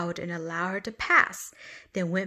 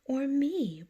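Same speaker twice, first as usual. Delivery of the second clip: bragging; 6 semitones higher than usual. Acted. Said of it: "bragged the butterfly".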